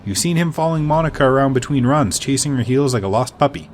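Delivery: steady storyteller read of the scene; calm narrator voice; game text narration. A narrator's reading. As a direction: set the scene like a game master.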